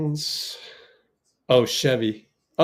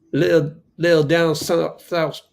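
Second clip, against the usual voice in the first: put-on Southern country accent; 3 semitones higher than usual. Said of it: "Oh, my accent's horrible".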